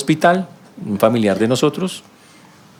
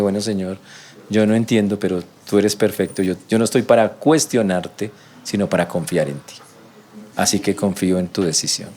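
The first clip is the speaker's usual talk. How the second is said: humble surrender; 4 semitones lower than usual. Shown as a demonstration. Humble prayer after bowing head.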